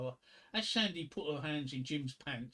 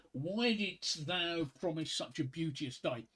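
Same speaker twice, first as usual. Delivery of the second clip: poem recital; slower than usual. Shown as a demonstration. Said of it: "sonnet thirty-four".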